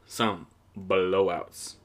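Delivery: "Some blowouts" stretched out very slowly; slow drawn-out repeat. Shown as a demonstration. Podcaster savouring the blowouts, slow drawn-out repeat. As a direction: savour the words, drag them out. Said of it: "There were some blowouts today".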